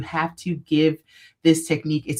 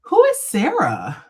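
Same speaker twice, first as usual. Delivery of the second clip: blank stare; 6 semitones higher, 4 dB louder, slower than usual. Retold or imitated. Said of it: "he looks at me like".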